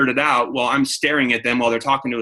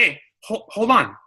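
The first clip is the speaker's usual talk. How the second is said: demo hold on; 7 semitones higher than usual. Shown as a demonstration. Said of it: "You say".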